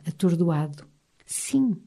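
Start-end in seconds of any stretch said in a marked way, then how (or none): 1.2-1.8 soft, higher-pitched calm reply; a small, quiet assent; serene, very low volume. A narrator's reading. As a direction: answer serenely, barely audible. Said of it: "disse serenamente, a voz tão baixa".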